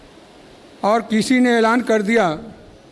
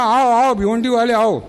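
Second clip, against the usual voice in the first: mildly raised, higher calling voice; retold call, pitched up a little; imitated calling out; 3 semitones higher than usual. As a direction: act out a group beckoning someone over. Retold crowd calling him over.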